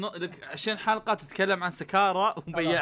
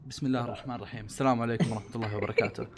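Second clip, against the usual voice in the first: measured, serious host voice; formal opening; 6 semitones lower, faster than usual. Shown as a demonstration. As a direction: open the show solemnly. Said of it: "نبي رسمي شباب".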